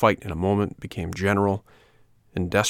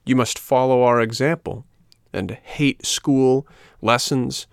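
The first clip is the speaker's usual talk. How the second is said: put-on bossy rascal boy; 4 semitones higher, 4 dB louder, slower than usual. Boys lay down their terms.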